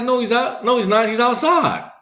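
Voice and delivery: put-on high, loud frantic kid insisting; retold yell. Ten-year-old yelling to his dad that his brother is outside, high frantic shout. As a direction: yell it like a scared kid nobody believes. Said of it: "What are you yelling about?".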